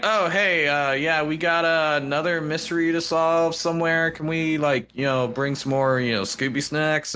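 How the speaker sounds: put-on light casual girl voice; Daphne voice. Daphne walking in with news, lightly voiced and breezy. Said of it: "She's like".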